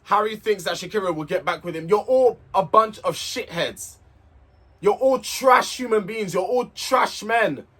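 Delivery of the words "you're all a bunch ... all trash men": contemptuous, drawn-out put-down; slow, disgusted insult. Real, not acted. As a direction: drag out each insult with contempt. Insulting the men on the show.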